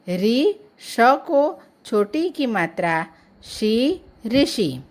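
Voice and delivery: teacher building ऋषि syllable by syllable; spelling out ऋषि. Shown as a demonstration. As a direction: sound out ऋषि slowly, री, then शी, then the whole word. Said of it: "ऋषि शब्द लिखा हुआ". (ऋषि को मात्रा के साथ तोड़कर पढ़ना)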